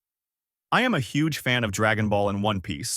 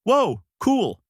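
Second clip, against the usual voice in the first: much higher, louder thrilled cry; excited exclamation; 12 semitones higher, 5 dB louder than usual. Acted. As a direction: gasp in delight. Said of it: "Goku exclaimed".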